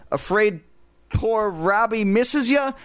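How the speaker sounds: high, squeaky puppet taunt; drawn-out high ventriloquist's voice; Slappy's dummy voice. A narrator's reading. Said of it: "Lindy made Slappy ask".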